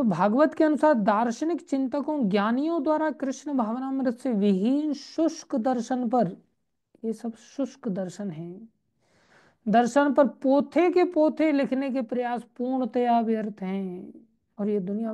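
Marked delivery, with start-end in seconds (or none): 0.0-6.4 emphatic, higher-pitched scripture reading; projected recitation of a text; reading aloud. Acted. Reads the book text aloud. 9.7-14.1 emphatic reading that drops at the verdict; reading aloud. Acted. Reads the book text aloud.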